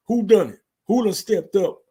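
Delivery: loud, high challenge to the room; mock boss call-out. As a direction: demand it like a chief calling out his family. Imitating Roman addressing the family.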